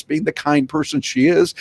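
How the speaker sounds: ordinary talk, nothing marked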